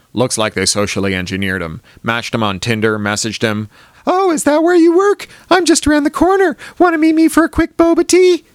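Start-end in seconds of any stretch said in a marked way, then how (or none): 4.1-8.4 very high, loud flirty female voice. Acted. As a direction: play the sweet bait on a dating app. Narrator voices the flirty catfisher.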